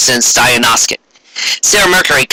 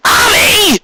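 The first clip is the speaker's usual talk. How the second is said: exasperated shout. Acted. Four friends to the studious girl: high exasperated shout. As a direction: yell her name in mock despair.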